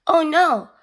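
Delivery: high, loud storybook cry; dismayed cry. A narrator's reading. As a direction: cry out in alarm for the kids. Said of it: "cried Jack".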